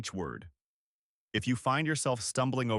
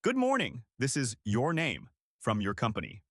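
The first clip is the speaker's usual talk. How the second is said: strong clear opening. Shown as a demonstration. Coach models how to open a call, bright and strong. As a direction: greet the caller with energy and clarity. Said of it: "a strong, clear opening".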